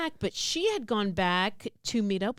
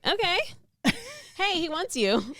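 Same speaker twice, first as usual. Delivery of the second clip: mock eager; 9 semitones higher than usual. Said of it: "and I was like".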